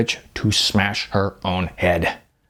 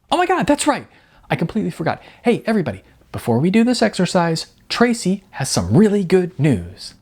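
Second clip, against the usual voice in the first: much higher, breathless excitement; gushing coach; 8 semitones higher, faster than usual. A narrator's reading. Coach announcing Tracy's news to the class, gushing. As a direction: announce it like the best news ever.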